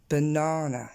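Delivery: BANANA as buh-NAA-nuh, long middle; English word stress. Shown as a demonstration. Teacher putting the pieces together, English-stressed banana. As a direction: lean on the second syllable of BANANA. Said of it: "l'accent tonique qui tombe sur du coup la deuxième syllabe".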